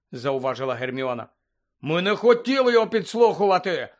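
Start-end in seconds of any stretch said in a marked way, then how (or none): 1.8-3.9 high, loud protest; raised voice, indignantly denying the charge; indignant cry. A narrator's reading. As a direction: burst out in offended self-defence. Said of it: "обурено вигукнув Рон".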